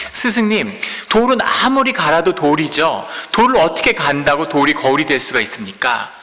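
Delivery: the disciple protesting to his master in disbelief; dumbfounded. Acted. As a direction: ask it as if the idea is absurd.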